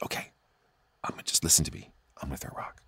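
hushed confiding voice; quiet whisper. Retold or imitated. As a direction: whisper so dad can't hear.

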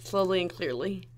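slow and clear. Shown as a demonstration. Exaggerating the line for clarity.

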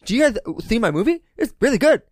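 lightly voiced lisping Paul Scheer; a hint of a lisping Paul Scheer; Paul Scheer impression. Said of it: "that's my best".

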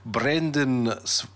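slow, hesitant South African accent attempt. Shown as a demonstration. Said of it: "try it with a South African accent".

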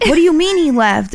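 high-pitched, incredulous question; retold disbelief. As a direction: replay a startled double-take, pitch jumping up. Retold alarmed reaction to news.

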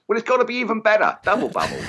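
high, fast giddy enthusiasm; mock excitement. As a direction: play it up like a gadget fan. Mocking excitement over double laser.

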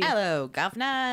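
hammed-up Cockney greeting, slow; a bad London accent, drawn out; mock British accent.

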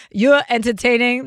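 put-on Brooklyn accent, dropped r's. Shown as a demonstration. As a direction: say it like you're from Brooklyn. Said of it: "That's my Brooklyn accent".

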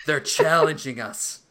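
slow, loud, solemn pronouncement; mock grave Grant. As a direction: announce it like a grim expert. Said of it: "He's like".

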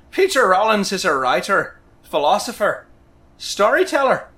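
playful Irish lilt, like Lucky the Leprechaun; Irish accent. Acted. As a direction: read the bio with a hammed-up Irish brogue. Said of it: "read it in a, uh, Irish accent, some kind of a lilt".

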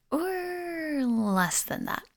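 drawn-out, high slide downward; slow, high-pitched hedging; playful hedge. Real, not acted. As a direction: stretch it out high and let it slide down. Playful hedge about unpleasant changes.

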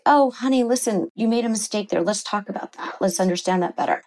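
tender coaxing, a hint of it; gentle parent. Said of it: "if you're compassionate with your child".

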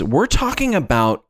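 slow dramatic. Acted. Reading AI script.

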